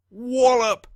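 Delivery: high, loud wallop; storyteller's big impact word; sudden exclamation. A narrator's reading. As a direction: hit it hard like the blow. Burglar hitting his head.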